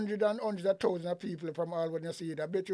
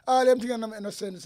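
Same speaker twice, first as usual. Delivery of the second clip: louder, higher, pressing the point hard; heated rant; 4 semitones higher, 8 dB louder than usual. Real, not acted. Commentator fires back at the minister, raised angry voice. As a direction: jab at the minister's logic, voice raised.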